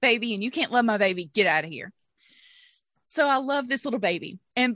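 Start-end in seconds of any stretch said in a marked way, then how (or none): 0.0-1.9 indignant retold tirade; cussing out. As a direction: tell off the midwife, fiercely protective. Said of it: "I start cussing out the midwife".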